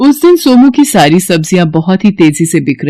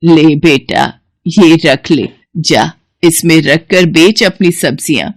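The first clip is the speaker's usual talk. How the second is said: put-on old woman giving basket; 2 semitones lower than usual. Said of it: "उससे कहती हैं".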